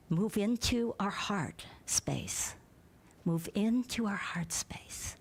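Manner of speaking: slow breathy prayer voice; prayerful whisper. Shown as a demonstration. Pastor leading the congregation inward, slow and whispered. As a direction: guide them inward, hushed and slow. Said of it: "We say it often here".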